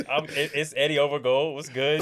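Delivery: put-on Londoner slipping into an American accent; casual American podcast intro voice. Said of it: "why am I doing an American accent?".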